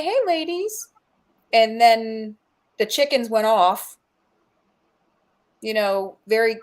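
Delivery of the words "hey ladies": high, lilting mimic of her greeting; imitating her voice. Camper imitating the voice heard at the chicken coop, high mimicry. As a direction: call it out high, as she would. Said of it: "in her voice".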